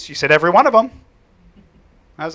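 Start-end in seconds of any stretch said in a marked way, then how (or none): 0.3-0.9 put-on loud, high little-girl boast; proud girl. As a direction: voice the kid proudly, louder.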